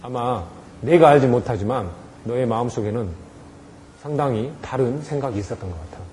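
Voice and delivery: soft, calm empathy; gentle understanding. Shown as a demonstration. Teacher gently guesses the child's hidden thoughts, soft. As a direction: reach out to the child's mind. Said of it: "서로 얘기를 해보는 거예요".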